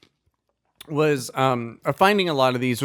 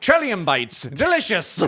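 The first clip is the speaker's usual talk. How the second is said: ad read voice; 3 semitones higher than usual. Acted. Mock ad read.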